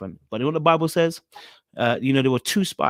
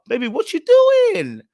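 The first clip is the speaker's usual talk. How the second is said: high, slow, louder drawn-out mock shock; mock incredulous woman; 8 dB louder, slower than usual. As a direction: stretch it way up as if scandalized. Mocking the caller's demand.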